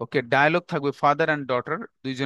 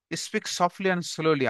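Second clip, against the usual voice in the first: slow dictation; 3 semitones higher, much slower than usual. Shown as a demonstration. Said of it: "dictating the point slowly".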